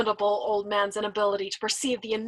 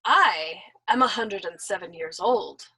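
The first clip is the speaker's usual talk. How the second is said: suave reminder; 2 semitones lower, slower than usual. Acted. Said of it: "the old man reminded him suavely".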